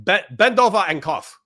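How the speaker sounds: doctor telling a recruit to cough, in mock Asian accent. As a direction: imitate the doctor's Asian accent while laughing. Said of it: "he's saying it with an Asian accent".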